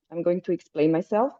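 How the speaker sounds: usual speaking voice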